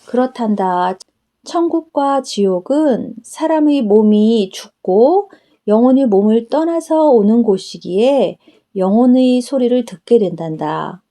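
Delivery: a hint of a tender Jesus explaining to his daughter; Jesus speaking. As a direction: answer her kindly as the Lord.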